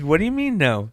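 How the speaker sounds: what do you mean no, high and incredulous; incredulous disbelief. Retold or imitated. To the old lady refusing a chair, high incredulous disbelief. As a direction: pitch jumps way up in sudden disbelief.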